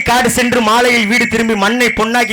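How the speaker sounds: formal stage compere; stage announcer voice. Acted. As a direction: thank the crowd like a folk troupe host. Karakattam stage thanks speech.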